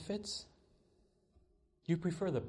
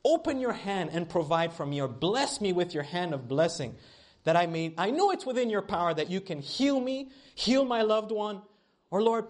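imitated pleading prayer. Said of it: "Have you ever prayed like this?".

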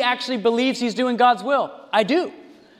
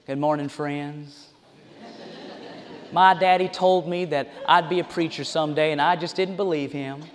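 mocking preacher; 5 semitones lower, 4 dB quieter than usual. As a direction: lightly mimic a slick TV preacher. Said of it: "out he comes and says".

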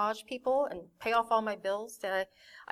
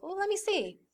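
mom's voice; 11 semitones higher than usual. Retold or imitated. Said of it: "my mom was like".

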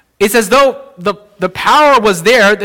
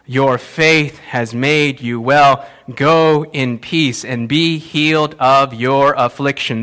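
tender pronouncement; 5 semitones lower, slower than usual. Acted. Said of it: "he said to her".

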